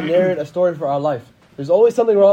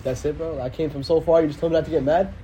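mock disbelief; 3 semitones lower, 3 dB quieter than usual. Disappointed companion.

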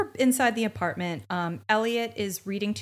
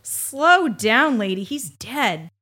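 mock cop blunt; 7 dB louder, much slower than usual. Voicing the detective telling the widow, mock blunt. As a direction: brush her off, then drop it bluntly. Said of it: "I'm like".

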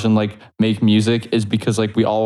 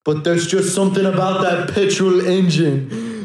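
higher-pitched British car enthusiast; mock British accent; 6 semitones higher than usual. Retelling a tourist defending Lamborghinis, higher mock British accent. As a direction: imitate a Brit fond of engines. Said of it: "he said".

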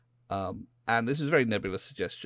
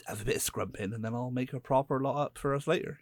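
put-on West Country accent; 4 semitones higher than usual. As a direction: slip into a mild West Country accent for the neighbour line. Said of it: "I went proper West Country".

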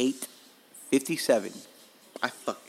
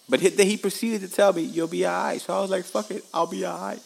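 amused retelling; 8 semitones higher than usual. Retold or imitated. Raised pitch, amused retelling.

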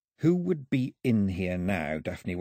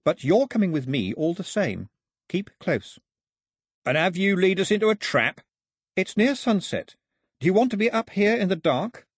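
put-on high-pitched, insistent girl; girl confronting her captors; 10 semitones higher, 4 dB louder than usual. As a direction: raise the pitch right up for the girl. Voices girl arguing with captors.

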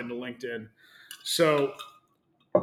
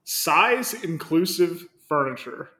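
corporate announcement voice; 5 semitones higher, 7 dB louder, slower than usual. Acted. Reading the corporate post aloud.

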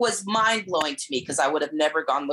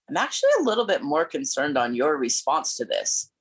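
hushed, unvoiced whisper; whispered aside. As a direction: whisper it pointedly. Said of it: "Angela looks at Holly and says".

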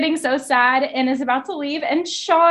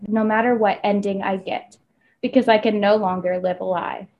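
dramatic blurb reading; 2 semitones lower than usual. Acted. Co-host reads the back of the book aloud in a solemn voice. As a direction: read it like a brooding back-cover blurb.

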